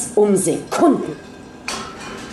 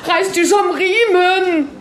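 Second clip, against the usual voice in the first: high, slow, stern urgent command; urgent scolding; 10 semitones higher than usual. A narrator's reading. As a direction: pull yourself together, firmly. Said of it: "zischte Maria". (Maria fährt Ingeborg an, hoch und streng)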